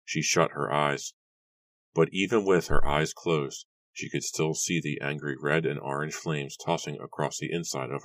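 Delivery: deliberate, dramatic audiobook reading; story narration. A narrator's reading. Narrator describes the burning mansion, dramatic storytelling. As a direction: narrate the disaster with measured pauses. Reads the prologue aloud.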